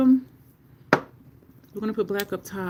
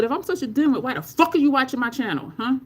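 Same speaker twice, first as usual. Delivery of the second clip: emphatic retold comeback, slightly raised; retold full-chested clapback; 5 semitones higher than usual. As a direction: say it with your whole chest, as a retelling. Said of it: "You said that with your whole chest".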